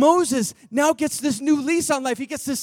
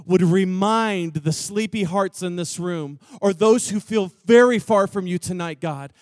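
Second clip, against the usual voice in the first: prayer. Acted. Pastor praying over the room, earnest prayer. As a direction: pray it gently over the band.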